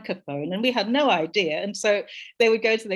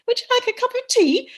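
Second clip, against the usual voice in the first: high, loud sing-song English politeness; exaggerated upper-class teatime voice; mock posh English; 8 dB louder than usual. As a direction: mimic the lilting English rhythm. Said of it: "the rhythm of English that we thought was really funny".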